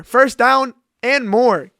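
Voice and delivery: loud, high, breathless excitement; can barely get the words out; thrilled yelling over a big play; excited outburst. Real, not acted. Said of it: "I can't speak. I'm having a heart attack".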